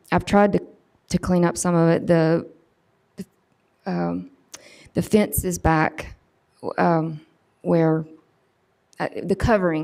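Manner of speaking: nervous, anxious, jittery, halting, stumbling, stammering. Speaker explaining something, then apologizing for nerves; nervous, stammering. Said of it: "I'm so nervous".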